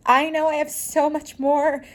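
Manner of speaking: retelling a desperate prayer on a park bench; crying out to God. Retold or imitated. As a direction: beg God for help, voice lifted and aching. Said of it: "Like, I was crying out".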